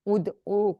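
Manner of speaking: "ادعو" as ud-oo, no h after the d; ain, no h. Shown as a demonstration. Teacher corrects a student, "ادعو" with ain and no h. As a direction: end "ادعو" on a pure oo, without breathing an h. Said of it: "او ہے، آئین ہے".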